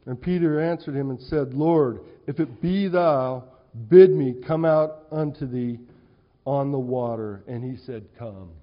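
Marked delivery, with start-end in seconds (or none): 1.5-7.4 Peter calling out. Acted. 8.2-8.5 soft, low single word; Jesus softly calling Peter onto the water; quiet invitation. Acted. Jesus bids Peter come.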